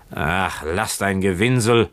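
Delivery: mildly irritated brush-off; snapped. Acted. Drunk boatswain dismissing Keawe's pleading, mildly snapped. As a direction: cut him short with a touch of anger. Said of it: "fuhr ihn der Bootsmann an".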